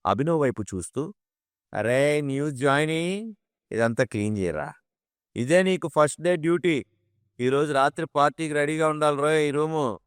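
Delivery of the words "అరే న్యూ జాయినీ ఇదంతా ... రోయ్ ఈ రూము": bossy order. A narrator's reading. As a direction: order the new guy around. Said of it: "అని order వేశాడు రంజిత్".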